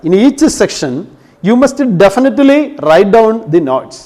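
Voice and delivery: very slow, every word spaced for writing down; slow dictation. Shown as a demonstration. Teacher dictating a note to students, slow and spaced. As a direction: dictate it slowly so they can copy. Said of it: "while you are attending the class".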